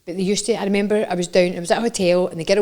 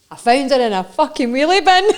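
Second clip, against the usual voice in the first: loud Scottish catchphrase, higher pitched; 4 semitones higher, 5 dB louder than usual. Shown as a demonstration. Host gives the visitor a Scottish phrase, in loud broad Scottish. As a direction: belt it out in a Scottish accent. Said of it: "we'll do our Scottish phrases".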